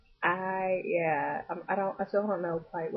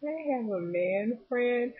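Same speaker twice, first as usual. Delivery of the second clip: hesitant excuse; 5 semitones higher, much slower than usual. Retold or imitated. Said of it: "I was like".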